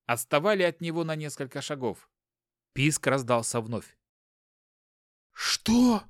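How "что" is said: high startled inner cry; inner exclamation. Acted. Hopkin hears the baby's squeak, startled high exclamation. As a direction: jolt of sudden alarm. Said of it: "воскликнул Хопкин внутри себя".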